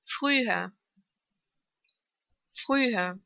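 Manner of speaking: long ü in "Früher". Shown as a demonstration. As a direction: draw out the ü of "Früher". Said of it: "Lang ausgesprochen".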